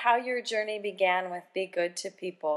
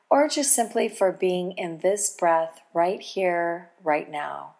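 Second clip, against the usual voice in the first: calm meditative tone. Acted. Host leads a golden pause meditation.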